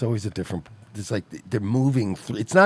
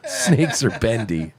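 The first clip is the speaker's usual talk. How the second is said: laughing quote; slower than usual. Retold or imitated. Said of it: "Pecker twenty-nine says".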